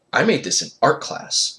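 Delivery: mock offended. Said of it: "I acted like I was offended".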